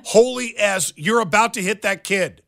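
loud, high-pitched alarmed yell; retold scream. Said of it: "I screamed out loud".

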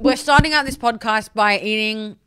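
talking through a mouthful of lollies; chewing while talking. Real, not acted. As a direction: speak while chewing candy. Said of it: "sorry for the chewing noises".

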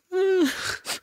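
high mock sob wail; a hammed-up fake cry. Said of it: "we were all in there like".

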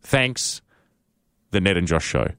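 reading the email aloud with punctuation spoken; dictating a telegram. Shown as a demonstration. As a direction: read it out like a telegram, saying every comma. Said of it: "I will actually read this to you as if it was a telegram".

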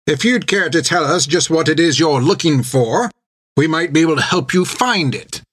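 a hint of a prim, venomous old nun; old Sister Hilda speaking coolly to the intruder. A narrator's reading. Hilda voiced in the story.

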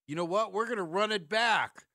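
loud mock owner announcing. Mocking the Bulls owners who keep the same roster, in a loud mock proclamation.

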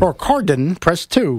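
automated phone-menu voice. Pretend.

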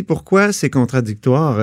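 slow, pondering, weight on pourquoi with a falling close; musing to himself. Retold or imitated. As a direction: turn it over slowly in your head, pourquoi leaning. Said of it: "puis je me suis dit".

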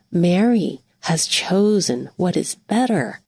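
mildly tender, measured reproof; loving voice. Acted. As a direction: speak with gentle love, pausing after the name. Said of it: "use a loving voice".

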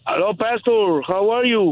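caller far from the phone; distant voice, away from the mic; phone held away. Real, not acted. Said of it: "speak closer to the phone".

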